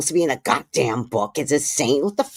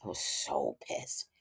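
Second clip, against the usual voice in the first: low, slow, near-whispered repeat; slow seething undertone; hushed admission; 13 semitones lower, 15 dB quieter than usual. Real, not acted. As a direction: sink it right down and stretch it out.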